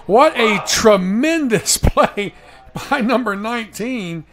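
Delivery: big rising shout of play-by-play delight; excited call. Real, not acted. Announcer calling a tipped catch to listeners, excited shout. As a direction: call the catch like the crowd's on its feet.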